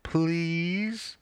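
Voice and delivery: breathy high whisper, begging; whispered plea. A narrator's reading. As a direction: whisper it like a wife coaxing her husband. Wife begging again in bed.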